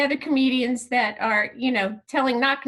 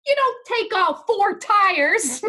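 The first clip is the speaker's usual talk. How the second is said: slow, higher, louder disbelief; exasperated retort; 5 semitones higher, 4 dB louder, slower than usual. Retold or imitated. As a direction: spell it out in exasperation. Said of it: "I'm like".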